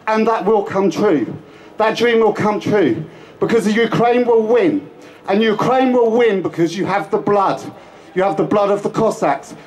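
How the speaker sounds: rousing rally speech. Real, not acted. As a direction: lift the crowd with a hopeful vision.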